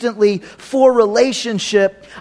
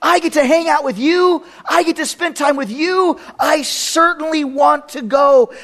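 eager delight; 4 semitones higher than usual. Retold or imitated. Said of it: "It was like".

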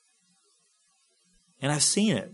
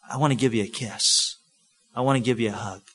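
low, gentle, unhurried offer; intimate affection; 6 semitones lower, faster than usual. Acted. Someone offering a loved one affection, intimate and low. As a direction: invite closeness tenderly, in a lowered voice. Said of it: "desire for intimate closeness".

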